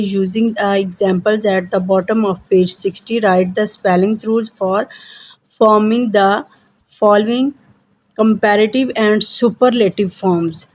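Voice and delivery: slow, deliberate read-aloud of instructions; measured classroom dictation pace; slow textbook reading. Acted. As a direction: read each word out carefully for the class. Teacher reads textbook instructions aloud.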